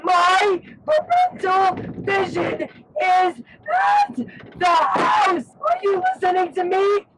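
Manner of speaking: hoarse desperate shout; strained voice yelling. Real, not acted. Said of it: "my voice is gone".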